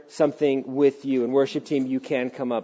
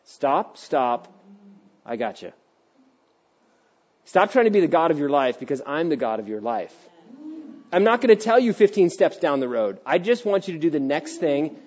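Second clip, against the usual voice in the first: calm God voice. Retold or imitated. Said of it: "God's like".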